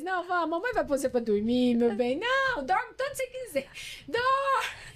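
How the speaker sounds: put-on high, babying voice to a crying child; sweet mommy voice. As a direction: coo him to sleep, climbing very high at the end. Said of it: "Eu falo assim hoje, brincando". (voz doce de mãe, bem aguda, ninando o filho)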